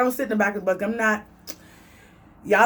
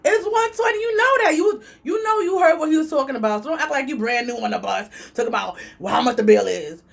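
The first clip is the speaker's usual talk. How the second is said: exasperated inner rant; 2 semitones higher than usual. Retold or imitated. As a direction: let the frustration spill out, pitched way up. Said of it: "In my head, I'm like".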